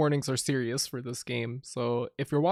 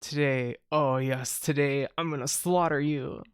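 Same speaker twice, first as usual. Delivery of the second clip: low, gloating villain voice; menacing villain; 3 semitones lower than usual. Acted. Princess gloating over her rival, low and menacing.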